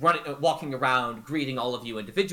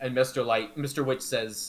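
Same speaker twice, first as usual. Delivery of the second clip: ordinary delivery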